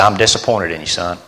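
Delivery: soft, heavy-hearted rebuke, dropping away on son; a father letting his son down gently; hushed letdown; quiet disappointed father. Retold or imitated.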